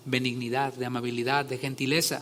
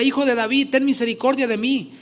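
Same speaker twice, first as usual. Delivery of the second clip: higher, louder pleading cry; 7 semitones higher, 4 dB louder than usual. A narrator's reading. Blind beggar crying out again over the crowd, loud plea. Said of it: "clamaba y decía".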